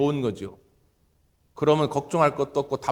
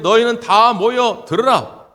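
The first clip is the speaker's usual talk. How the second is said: slow, louder summons to gather; God's call, preached; 5 semitones higher, 7 dB louder, slower than usual. Acted. Pastor voicing God's summons to the people, loud and slow. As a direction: call the scattered people in, drawn out. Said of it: "십사 절에 보면".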